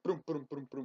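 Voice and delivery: quick rolled thuds of a horse; galloping hoofbeats imitation. Owner imitating her hyper cat at night, galloping thuds. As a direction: imitate a cat thundering through the house. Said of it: "you hear her come through the house".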